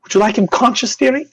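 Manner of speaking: high, lilting nurse voice. Acted. Nurse asks the guard about the patient, obliging. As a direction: offer it sweetly, rising at the end. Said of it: "And then she goes".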